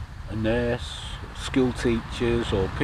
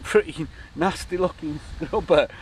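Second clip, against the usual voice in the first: laughing while telling; 7 semitones higher, slower than usual. Real, not acted. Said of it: "I couldn't stop fucking laughing".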